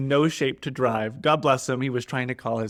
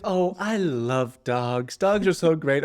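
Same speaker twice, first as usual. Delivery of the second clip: imitating driver; 4 semitones higher, slower than usual. Imitating dog-loving driver.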